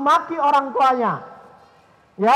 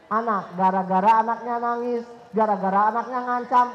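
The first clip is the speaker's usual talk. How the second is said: normal talking voice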